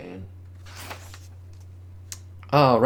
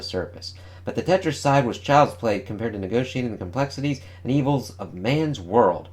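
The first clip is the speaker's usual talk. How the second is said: clickbait video narrator. Acted. Reads comic solicitation text.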